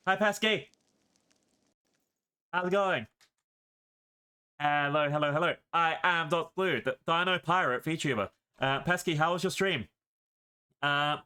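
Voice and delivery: talking with an egg in the mouth; words around a mouth-held egg; mouth propped open. Real, not acted. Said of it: "I have an egg in my mouth".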